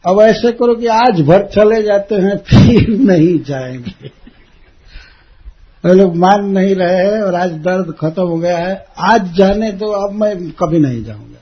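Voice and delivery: lightly acted pleading, starting loud; coaxing. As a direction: talk her round like a keen child. Acted child coaxing mother for permission.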